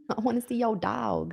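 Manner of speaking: soft unvoiced whisper. Real, not acted. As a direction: whisper it teasingly. Whispered back and forth.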